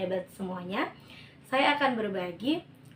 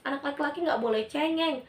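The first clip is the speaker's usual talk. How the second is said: an irritated parent telling off her son; scolding parent; 5 semitones higher than usual. Acted.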